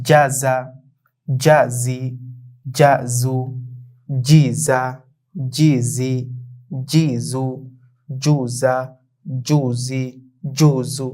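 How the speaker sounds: two-syllable Arabic drill in an even, repeated tune; model reading drill. Shown as a demonstration. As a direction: read each pair distinctly, pausing for learners to repeat. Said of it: "আমি শুরুতে পড়ছি". (থেমে থেমে স্পষ্ট উচ্চারণে মশক)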